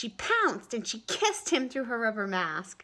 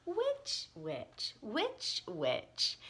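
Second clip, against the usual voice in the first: playful repeating; much slower than usual. Acted. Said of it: "liking the sound of the words".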